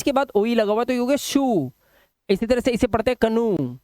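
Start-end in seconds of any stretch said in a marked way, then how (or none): 1.2-1.7 "शू" with a long oo. Shown as a demonstration. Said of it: "ऊ की आवाज". 3.2-3.8 "कनू" with a long final oo. Shown as a demonstration. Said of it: "ऊ की आवाज".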